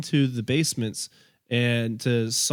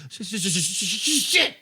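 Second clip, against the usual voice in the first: higher, breathy curse; dejected swimmer; 6 semitones higher than usual. Retold or imitated. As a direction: groan it like a beaten swimmer. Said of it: "sounded a little bit like".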